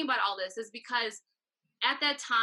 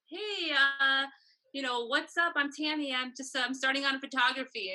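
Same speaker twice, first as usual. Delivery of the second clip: hesitant, higher acted introduction with fillers; uncomfortable; 4 semitones higher than usual. New photographer introducing herself to strangers, acted awkwardness. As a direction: introduce yourself awkwardly, stretching the hey and uh. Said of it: "you get uncomfortable for a while".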